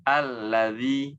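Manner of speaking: tongue tip at teeth in Allazi; proper dzal; correct dzal. Shown as a demonstration. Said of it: "bunyinya seperti ini".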